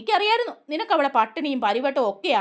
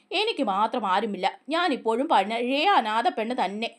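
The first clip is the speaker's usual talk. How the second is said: sad and forlorn; 2 semitones lower than usual. Acted. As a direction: let the words sink as if no one is left. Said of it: "സ്വരത്തിൽ അടങ്ങിയ അന്യതാബോധവും സങ്കടവും നിരാശയും".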